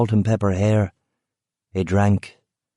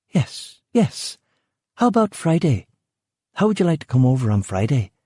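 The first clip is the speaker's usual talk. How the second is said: hurried Rachel; 6 semitones higher than usual. A narrator's reading. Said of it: "she replied quickly".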